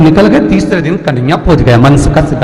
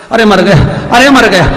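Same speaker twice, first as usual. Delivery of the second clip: loud, pained cry; husband yelling in pain; 3 semitones higher, 4 dB louder than usual. Acted. Husband still yelling in pain after the blow. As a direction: wail at being hit. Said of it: "पति चिल्लाए".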